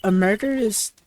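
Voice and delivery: put-on bubbly valley girl, lots of "like"; ditzy valley girl. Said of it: "like a valley girl would talk".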